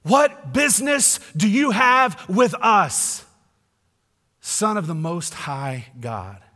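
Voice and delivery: slow, loud, high demon challenge; demons shouting. Retold or imitated. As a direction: hurl the question at Jesus. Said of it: "how they shout at him".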